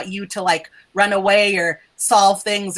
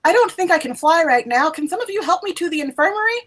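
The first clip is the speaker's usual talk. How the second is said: weak sick student; 8 semitones higher than usual. Acted. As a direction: play her faint and unwell. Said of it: "she just says".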